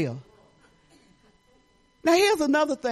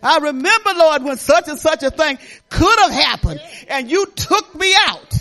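retold prayer; 5 semitones higher, 7 dB louder than usual. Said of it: "I say".

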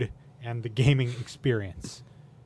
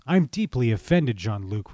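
mock offended. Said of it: "replied Q".

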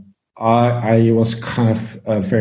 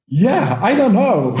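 laughing; 9 semitones higher than usual. Retold or imitated. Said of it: "he looks at me like".

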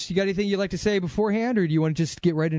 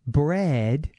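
mock French; 4 semitones higher, much slower than usual.

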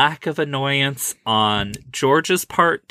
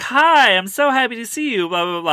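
high, loud, fast gushing greeting; excited kid voice; 11 semitones higher, 4 dB louder, faster than usual. Retold or imitated. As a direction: gush like an eager little kid. Nephew voiced greeting, milkshake story.

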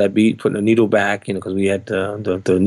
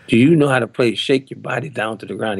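retold challenge with mild attitude. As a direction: put a little doubting attitude into the question. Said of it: "He said it with attitude".

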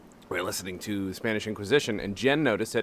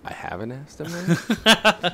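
sheepish unvoiced whisper; 8 semitones higher, 5 dB louder, much slower than usual. Real, not acted. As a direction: whisper it like a confession.

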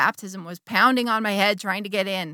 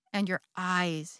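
whispered; 2 semitones lower, 5 dB quieter, slower than usual. Retold or imitated. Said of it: "he whispers".

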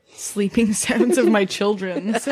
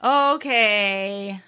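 mock eye-roll; much slower than usual. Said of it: "but then it just gets like".

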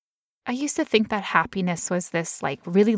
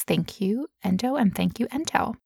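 mock gratitude; 3 semitones higher than usual. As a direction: thank the illness with a bitter grin. Mock thanks to her illness.

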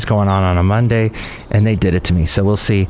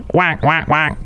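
short, raised duck call; duck quack; 3 semitones higher than usual. Acted. Mystery bird calling out to the puzzled host, duck quack. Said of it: "He kinda sounds like a duck".

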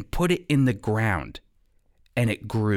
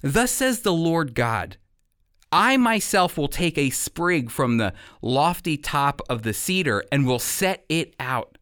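measured pulpit reading of Ezekiel; scripture reading. Acted. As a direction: read the prophet's words with weight. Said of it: "which sounds like this. Listen to this".

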